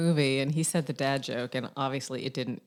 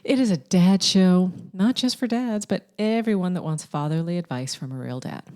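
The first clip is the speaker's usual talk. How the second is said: podcast host's measured welcome; show intro; 4 dB louder than usual. Acted. Host welcoming everyone to Ask Dad, show intro. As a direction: announce the show with deliberate phrasing.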